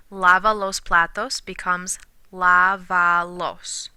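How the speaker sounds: slow, deliberate reading of the Spanish; slow dictation. Shown as a demonstration. Teacher slowly reads the example for students. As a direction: lay out each word very slowly. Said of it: "So count backwards".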